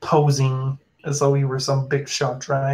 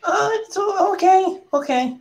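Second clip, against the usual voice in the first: much higher, frantic little creature; a tiny monster losing track of its friend; panicky creature voice. Acted. NPC calls out to Alex after the goblin vanishes, much higher panicky voice.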